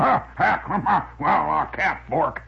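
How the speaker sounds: windbag judge. Retold or imitated. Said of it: "he was sitting on a bench going".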